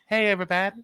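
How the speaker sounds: imitating a young radio host's high pitch; high-pitched mock show opening. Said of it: "high-pitched voice. No style at all".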